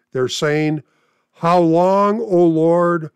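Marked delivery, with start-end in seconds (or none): 1.3-3.1 louder cry to the Lord. Acted. Martyrs under the altar cry to God, loud. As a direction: call it out, raised voice. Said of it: "crying out with a loud voice".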